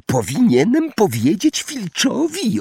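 high, mock-innocent poltergeist; high falsely innocent Peeves. A narrator's reading. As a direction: feign sweetness while plotting. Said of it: "oświadczył Irytek niewinnym głosem".

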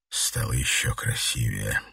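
low, slow, rasping compliment; a hint of hoarse tenderness. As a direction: drop low and rasp it slowly. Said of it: "хрипло ответил он".

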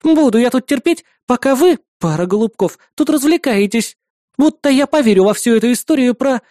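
scolding neighbour. Acted. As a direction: lay into the pair of lovebirds.

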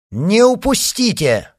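high, drawn-out shout; loud command. A narrator's reading. Leader orders riders not to lose the man, shouting. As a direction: call the order out slowly and loud. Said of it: "раздался громкий голос".

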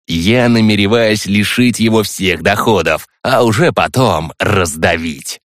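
lightly voiced scheming villain; calm, menacing schemer. Skipidar voiced addressing the hero.

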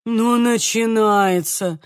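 slow, drawn-out annoyed grumble; angry snort. Acted. Lucyna annoyed at mother's well obsession, grumbling. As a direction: roll your eyes and snort it out. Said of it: "сердито фыркнула Люцина".

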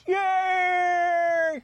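high squealing frog cheer; Kermit yay. Acted. Host cheering in high Kermit voice. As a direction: squeal it like the Muppet. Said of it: "you do it a little better".

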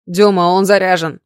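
loud warning cry with panic in it; panicked shout. A narrator's reading. Ignat warning Demid the gun is loaded, panicked shout. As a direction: yell it out, scared for her. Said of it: "крикнул Игнат, в его голосе слышались панические нотки".

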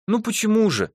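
teasing, with a smile; lightly flirting; playful. A narrator's reading. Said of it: "игриво улыбнулась она". (игриво, с улыбкой)

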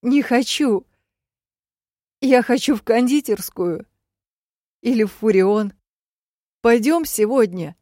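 put-on loud, high, childish wail. Dying Ned begs to go to the pastry shop, childish wail. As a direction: cry out like a little boy.

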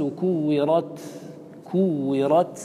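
slow recited كورت, airy final ت; audible breath demo. Shown as a demonstration. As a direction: end كورت on a ت released with a stream of breath. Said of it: "تسمعون النفس، هذا هو النفس".

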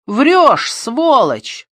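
sudden high shout of rage; furious outburst. Acted. Suspect screaming insult at detective, enraged shout. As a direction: spit the insult at him, loud and high.

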